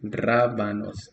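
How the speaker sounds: Rábanos with the stress on the first syllable ra. Shown as a demonstration. Teacher modelling rábanos stress for the class. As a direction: hit ra, then let banos fall away. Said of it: "The stress, uh, is in the first syllable".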